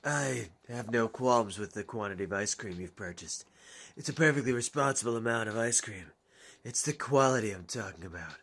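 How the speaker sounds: lightly voiced low, laid-back gruff guy; a hint of a low, unhurried tough guy; Robert.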